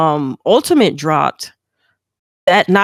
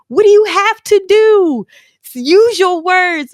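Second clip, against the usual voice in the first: patient friend; 11 semitones higher, 3 dB louder than usual. Retold or imitated. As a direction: coax a friend to calm down. Friend voiced on phone.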